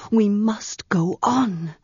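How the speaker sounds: slow whispered urging. Acted. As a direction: breathe it out, hushed. Man urges her, whispered.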